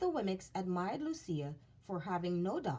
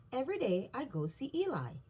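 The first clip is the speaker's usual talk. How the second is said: Lucia's voice; 6 semitones higher, faster than usual. Acted.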